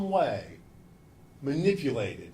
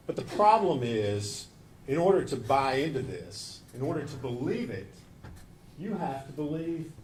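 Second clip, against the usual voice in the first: passionate closing argument; 3 dB louder than usual. Acted. Prosecutor presses the point.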